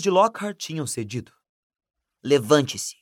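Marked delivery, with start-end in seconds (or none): 2.2-3.0 curt, harsh command. Acted. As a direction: snap it curtly. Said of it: "disse Rony com rispidez".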